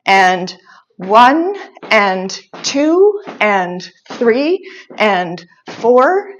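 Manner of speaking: slightly brisker dance count on the beat. Shown as a demonstration. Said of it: "I'm gonna go a little bit faster".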